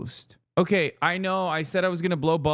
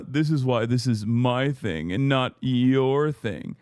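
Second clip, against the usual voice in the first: smug mock quote; slower than usual. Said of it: "you went".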